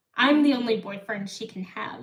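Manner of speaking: ordinary talk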